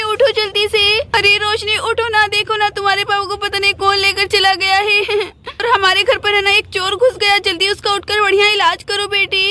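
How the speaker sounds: lightly voiced worried mother; alarmed mother. Mother waking her daughter about missing father, alarmed. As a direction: urge her awake in a mild panic.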